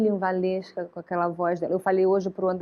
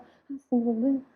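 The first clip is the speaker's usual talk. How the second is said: meek little doll, a touch softer; eager-to-please doll; 2 semitones higher, 3 dB quieter than usual. Acted. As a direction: play a pushed-around doll still eager to please. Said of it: "Aquele que quer sempre agradar". (boneca que quer agradar)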